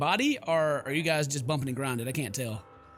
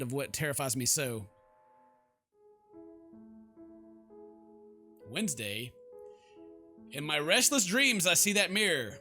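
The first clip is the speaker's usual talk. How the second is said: measured read with long pauses; story narration; 2 semitones lower than usual. Acted. Sleepless heroine recounts her restless dreams, measured narration. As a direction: narrate the nightmare deliberately. Reads game's narration aloud.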